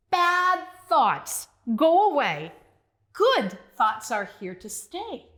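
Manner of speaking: slow chanted rhyme; slow mantra. Shown as a demonstration. Teacher modeling the rhyme, slowly. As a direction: chant it slowly for kids to follow. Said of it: "Can you say that one with me?".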